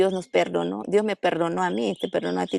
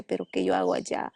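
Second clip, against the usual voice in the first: breathy inner whisper, much lower and softer; whispered doubt; 12 semitones lower, 4 dB quieter than usual. Retold or imitated. Voicing her fearful inner thought in a whisper.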